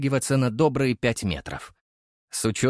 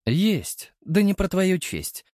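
stern; 5 semitones higher than usual. Acted. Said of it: "строго сказал я".

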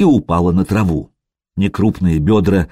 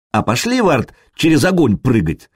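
desperate resolve; 4 semitones higher than usual. Acted. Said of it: "с отчаянной решимостью предложила Буданка".

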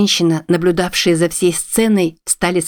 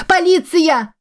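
высокий пронзительный крик о помощи; зови полицию во весь голос, в панике; панический крик; 12 semitones higher, slower than usual. Acted. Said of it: "закричала она". (высокий панический крик о помощи)

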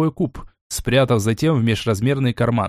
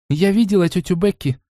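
exclaiming; 6 semitones higher than usual. Acted. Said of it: "воскликнула Лайза".

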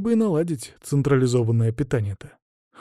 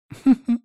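short high stifled giggle; disguised chuckle; 11 semitones higher, 4 dB louder than usual. Acted. Abbess hiding amusement at the girl, stifled chuckle. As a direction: cover up a little laugh. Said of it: "Замаскировав смешок".

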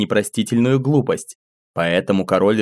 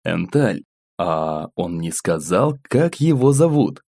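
gentle; 3 semitones lower, slower than usual. Acted. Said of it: "ласково спросил".

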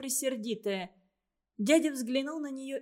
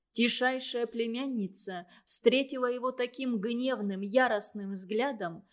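plain reading voice

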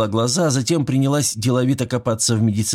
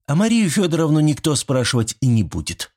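sharp, final and a touch higher; categorical; 7 semitones higher than usual. A narrator's reading. Nurse overruling the old man, curt and categorical. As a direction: cut him off, no arguing. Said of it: "категорично отрезала Зинаида".

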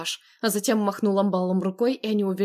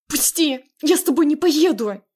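high, loud struggling cry; desperate shout; 7 semitones higher, 6 dB louder than usual. Acted. Narrator struggling against Andrey, desperate shout. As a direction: fight him off with your voice.

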